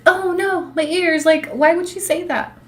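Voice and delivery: high, mock-scandalized clutching pearls; mock prudish viewer. Mocking offended viewers, high and scandalized. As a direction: play a shocked prude. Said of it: "they're like".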